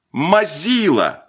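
high, drawn-out taunt; mocking jeer. A narrator's reading. Someone jeering at Marat after his miss, mocking. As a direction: stretch it out as a teasing call. Boys jeer at a missed shot.

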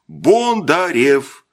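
drawn-out, slow questioning name; surprised echo. Acted. Captain echoing the strange name, slow and puzzled. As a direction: stretch the name in disbelief. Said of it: "переспросил Маслов удивлённо".

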